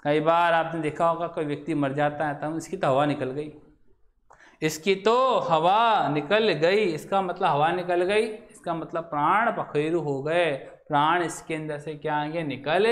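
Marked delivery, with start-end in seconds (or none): 4.6-6.8 slow, spaced-out quoted saying; drawn-out repeat. Acted. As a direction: repeat it slowly for the class. Repeats the phrase slowly for emphasis.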